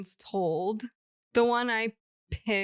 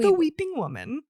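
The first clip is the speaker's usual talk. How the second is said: louder, higher spooky announcement; dramatic reveal; 7 semitones higher, 6 dB louder than usual. Acted. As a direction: announce it like a campfire tale. Dramatic ghost story title.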